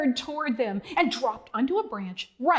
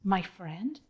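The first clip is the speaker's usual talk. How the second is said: gentle reassurance; 2 semitones lower than usual. Retold or imitated. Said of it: "He says".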